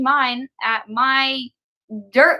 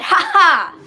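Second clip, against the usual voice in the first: mock "Ha ha!" higher and louder; a put-on cackle of a line; hammed-up laugh; 5 semitones higher, 6 dB louder than usual. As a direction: ham up a cartoon laugh. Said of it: "doing different voices".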